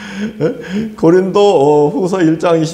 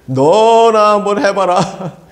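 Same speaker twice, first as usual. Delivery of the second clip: mocking retort; much slower than usual.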